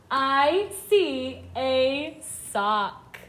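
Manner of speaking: very slow, separated words; each word stretched with a gap after; word-by-word reading. Shown as a demonstration. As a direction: read it out slowly for beginners to follow. Children read along.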